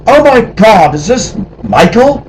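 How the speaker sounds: high, loud excited recognition; surprised. Retold or imitated. Sandy recognizing Michael on the phone, surprised. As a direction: gasp in delighted disbelief.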